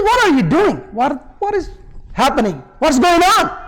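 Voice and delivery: high, bewildered protest, acted; alarmed husband. Husband comes out from behind curtain, alarmed and baffled. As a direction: demand an explanation, voice jumping high.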